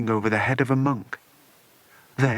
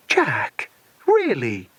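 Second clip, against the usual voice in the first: remonstrating; 3 dB louder, much slower than usual. Acted. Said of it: "remonstrated Alison".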